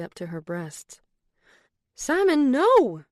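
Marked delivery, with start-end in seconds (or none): 1.9-3.0 sharp high shout of protest. A narrator's reading. Woman fending off groping boyfriend, shouting him off. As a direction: yell him off, much higher and louder. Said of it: "she shouted".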